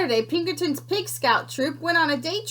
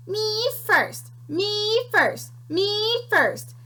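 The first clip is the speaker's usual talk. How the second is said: mocking the piglet; 9 semitones higher, much slower than usual. Creature mocks Pinkerton's cry.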